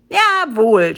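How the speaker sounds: loud, emphatic yell from a pompous ape; acted blustering cry; defiant shout. A narrator's reading. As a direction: shout it back without shame. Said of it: "schrie Krakelius Krekekek".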